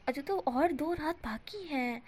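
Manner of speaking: a lightly voiced smug teaser; teasing. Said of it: "इसे वांग जी बोलता है".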